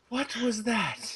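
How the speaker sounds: slow, laughing disbelief; slow amazed laugh of disbelief; wife's stunned laughing question. Retold or imitated. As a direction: ask it slowly, laughing in shock.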